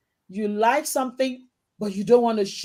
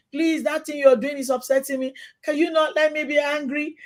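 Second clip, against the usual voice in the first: begging; 5 semitones higher than usual. Retold or imitated. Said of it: "I always beg".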